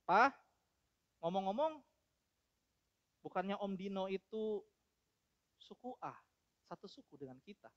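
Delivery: quiet, measured question from a son; understated calm, with pauses between phrases. Acted. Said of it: "Doni dengan tenang berkata kepada papanya".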